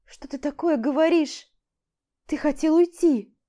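высоко и громко, тревожно; переспросить в страхе; испуганно. A narrator's reading. Снова испугана. (Аля пугается, что Олег хотел уйти)

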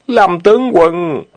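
overjoyed shout to the general; joyful shout. Acted. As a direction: yell across the cliff with joy. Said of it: "tiếng hò reo mừng rỡ".

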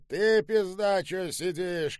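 high, hectoring yell; angry shout. A narrator's reading. General yells at the old woman, angry shout. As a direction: bark it at someone cowering. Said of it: "крикнул генерал старушке".

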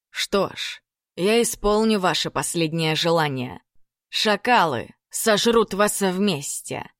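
slow bitter sneer; bitter smirk. Acted. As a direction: spit it out with a bitter smile. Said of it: "Шейх горько усмехнулся".

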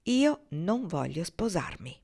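slow and firm, stress on Io; firmly. Acted. Ortensia refuses Norman's proposal, slow and firm. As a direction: set it down like a closed door. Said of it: "Ortensia disse con fermezza".

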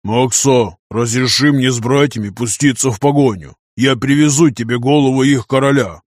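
giant warrior begging to pursue; earnest, pleading big man's voice; hopeful plea. Acted. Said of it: "столько просьбы и надежды". (просьба с надеждой)

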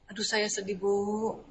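slow, soft, sorrowful sigh of a line; sad confession. Pretend. Mother confessing sadness to the teacher, soft and slow. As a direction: let the sadness out quietly to the teacher.

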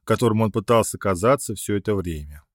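plain reading voice

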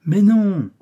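high, loud exclamation; loud, high-pitched "of course not"; emphatic denial. A narrator's reading. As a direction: swoop up high to dismiss the worry. Detective brushing off prisoner's worry.

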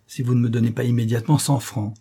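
matter-of-fact demand with falling end; name the price with cool insolence; firm demand. Acted. Rascal states his price.

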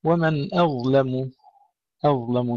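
"أظلم" with thin hamza and lam round the heavy za; light hamza and lam. Shown as a demonstration. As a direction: keep first sound and lam of "أظلم" thin. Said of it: "ننتبه إلى ترقيق الهمزة وترقيق اللام".

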